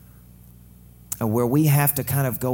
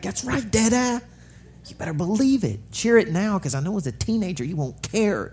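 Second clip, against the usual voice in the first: playful proud dad; 9 semitones higher than usual. Retold or imitated. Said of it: "I'm like".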